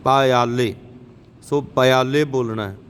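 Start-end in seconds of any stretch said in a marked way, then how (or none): 0.0-0.7 ਪਾਇਆਲੇ said slowly with every syllable; ਪਾਇਆਲੇ sounded out syllable by syllable; ਪਾਇਆਲੇ as a model for students; careful pronunciation. Shown as a demonstration. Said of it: "ਪੱਪਾ ਈੜੀ ਨੂੰ ਸਿਹਾਰੀ ਲੱਗਿਆ".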